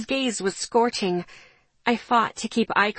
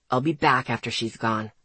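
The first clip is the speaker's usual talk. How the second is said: called over shoulder; 9 semitones lower than usual. A narrator's reading. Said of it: "Isaac called over his shoulder".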